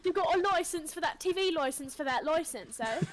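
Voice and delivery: mock British busybody; officious British questioning, played for laughs; British accent. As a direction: pile it on in exaggerated British. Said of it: "British people be like".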